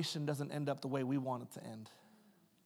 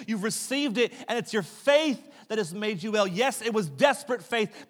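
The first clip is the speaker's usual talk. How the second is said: louder and higher, pressing each promise home; rising preacher fervour; 7 semitones higher, 10 dB louder than usual. Acted. Jesus assuring the healed woman she is well, in louder fervent preaching. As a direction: proclaim it to the whole room with conviction.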